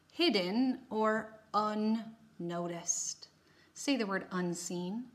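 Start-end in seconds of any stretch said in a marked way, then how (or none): 3.8-5.1 whispered prompt. Shown as a demonstration. Teacher whispering a prompt to students. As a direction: whisper it to the class.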